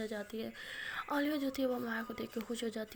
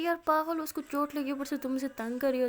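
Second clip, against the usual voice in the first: sharp scolding; 3 semitones higher, 6 dB louder than usual. Acted. Maya scolds Rimsha for teasing.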